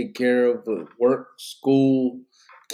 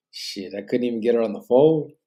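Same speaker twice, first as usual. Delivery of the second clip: yawning; 5 dB louder than usual. Real, not acted. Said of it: "I don't know why I keep yawning".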